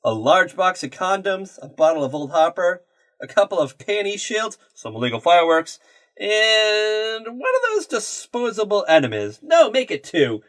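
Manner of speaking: retold awkward attempt at acting natural; fake casual. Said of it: "act all natural, act all casual".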